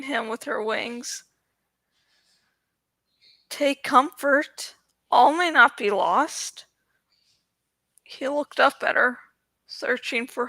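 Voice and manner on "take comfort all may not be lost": comforting. Acted. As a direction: soothe him gently. Dragon comforting the boy.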